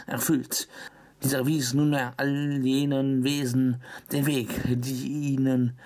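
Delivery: slow solemn legend reading; story narration. Acted. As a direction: read it like an old legend. Reads legend text aloud.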